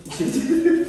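high, loud command to go in; sharp shout to send the dog inside; loud call to the dog. Real, not acted.

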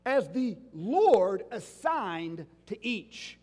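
slow, weighty stress on "Lord"; "Lord" drawn out for emphasis. Shown as a demonstration. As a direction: stretch the phrase out slowly, leaning on "Lord". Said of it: "notice where he puts the emphasis".

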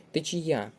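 Течія stressed on the final Я; Течія as течі-Я; stress on third syllable. Shown as a demonstration. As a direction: land on the last vowel of Течія. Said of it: "На третій склад наголос".

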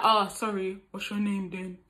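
lightly attempted guy's voice; half-hearted imitation of a man chatting someone up; a hint of a casual bloke; man's voice. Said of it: "I can't do a man's voice".

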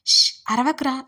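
a quick firm hush to a whining pet; urgent shush. Acted. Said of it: "చిన్నగా చెప్పింది ఆకృతి".

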